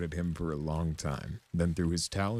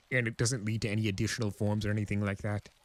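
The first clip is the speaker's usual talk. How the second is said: Discord voice; 4 semitones higher, faster than usual. Acted. Discord voiced, eager questioning.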